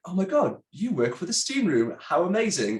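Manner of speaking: high, excited mock gush of a fan; gushing receptionist. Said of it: "the receptionist at the hotel was like".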